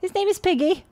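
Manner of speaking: put-on little girl. Little girl introducing her dog to the priest, high and girlish.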